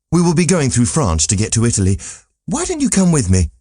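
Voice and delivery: Candide pressing his invitation, a touch brighter; hopeful young traveller, lightly voiced; eager young Candide.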